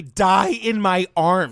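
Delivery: drawn out slowly; slow dramatic quote. Retold or imitated. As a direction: savour each word slowly. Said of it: "she actually says".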